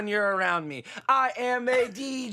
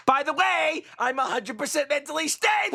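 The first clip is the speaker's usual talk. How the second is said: mock shout; 5 semitones higher than usual. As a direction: shout it way too eagerly. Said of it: "unstable to be like".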